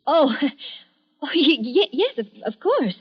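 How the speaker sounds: stammering, startled laugh; flustered surprise. Acted. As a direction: caught off guard, stammer it. Startled by neighbor's sudden entrance.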